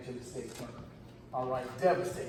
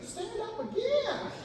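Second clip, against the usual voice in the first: screaming coach; slower than usual. Retold or imitated. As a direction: mimic the other coach's slow scream. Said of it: "his coach starts screaming".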